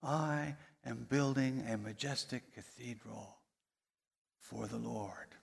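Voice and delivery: quiet, awed declaration, fading away on for the Lord; reverent, hushed. Retold or imitated. Third stonemason answering the visitor, quiet and reverent. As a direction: say it softly, gazing upward. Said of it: "looked up into the heavens".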